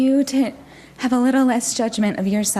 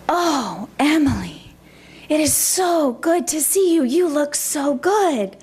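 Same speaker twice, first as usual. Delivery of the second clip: doting grandmother; 5 semitones higher than usual. Retold or imitated. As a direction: imitate a grandmother lavishing praise, lingering on the words. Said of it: "bring in my grandmother's voice".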